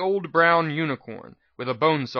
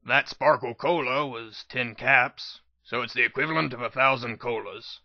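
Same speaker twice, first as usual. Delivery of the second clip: calm. Acted. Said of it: "P twenty-one said calmly".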